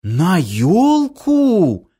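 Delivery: high, slow astonished question; surprised. Acted. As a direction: ask in disbelief. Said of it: "удивилась она".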